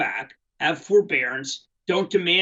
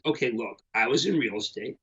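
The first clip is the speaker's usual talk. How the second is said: calm president; 4 semitones lower, 5 dB quieter than usual. Retold or imitated. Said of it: "very calmly says".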